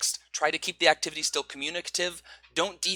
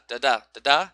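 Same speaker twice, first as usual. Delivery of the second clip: strong-weak da-da beats; rhythm demo; 7 dB louder than usual. Shown as a demonstration. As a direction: tap out the da-da rhythm clearly. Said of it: "You notice how sometimes it's da-da".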